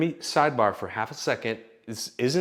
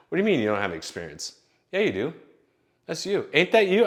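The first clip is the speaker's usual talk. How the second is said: grandma insisting; 6 semitones higher than usual. Retold or imitated. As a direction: push him like a grandma with proof.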